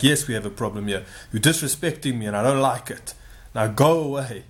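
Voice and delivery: imitated Nigerian accent, indignant; retold complaint in a Nigerian accent; heavy Nigerian accent. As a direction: put on a Nigerian man's accent. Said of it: "talking in this very heavy accent".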